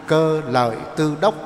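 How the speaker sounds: "Cơ Lợi Tư Đốc" in four separate syllables; measured "Cơ Lợi Tư Đốc", pauses between syllables; Sino-Vietnamese reading. Shown as a demonstration. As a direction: say "Cơ Lợi Tư Đốc" evenly, word by word. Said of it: "đọc qua tiếng Hán là".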